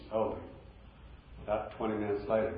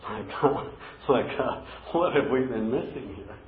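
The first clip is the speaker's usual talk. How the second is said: loud exclamation; 2 semitones higher, 7 dB louder than usual. Real, not acted. Preacher exclaims at rediscovered verse.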